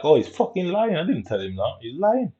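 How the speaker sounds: high indignant protest; defensive denial. Retold or imitated. Girl denying she lied, high and indignant. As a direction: deny it hard, outraged. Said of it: "He's like".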